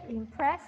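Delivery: "impress" said carefully with a clear p; teacher's corrective "impress"; pronunciation model. Shown as a demonstration. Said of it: "we pronounce it impress".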